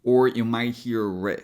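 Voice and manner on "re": "re" as a clear ree; ree syllable. Shown as a demonstration. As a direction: give "re" a full ee. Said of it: "pronouncing in two different ways".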